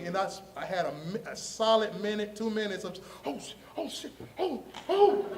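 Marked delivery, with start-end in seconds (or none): 3.3-5.3 acted-out starstruck freakout; stunned panic. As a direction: let the shock climb into high squeaks. Replaying a minute of shock.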